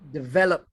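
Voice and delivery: "develop" with the weight on VEL; "develop" said di-VEL-op, middle syllable punched; stress on ver. Shown as a demonstration. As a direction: correct dictionary "develop". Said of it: "the emphasis is on ver".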